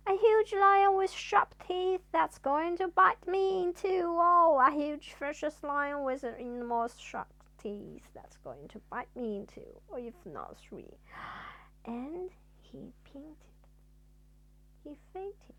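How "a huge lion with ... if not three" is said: loud, high frightened babble; rising fright then fading; panicked. Acted. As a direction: panic about the imagined lion. Mister Jelly panicking at lion.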